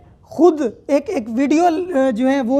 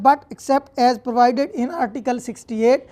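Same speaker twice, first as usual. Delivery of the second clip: very slow, each word set apart for notes; slow deliberate statute reading; slow dictation; much slower than usual. Shown as a demonstration. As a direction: dictate it to the class. Reads statute text aloud.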